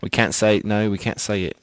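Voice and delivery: put-on slipping Australian accent; half-held mock Australian accent. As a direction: keep up a rough Aussie accent. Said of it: "I'm really losing the Australian accent".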